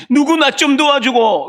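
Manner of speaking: acted helpless cry, moderately loud; cry for help. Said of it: "외쳤지만 아무도 도와줄 리 없을 때가".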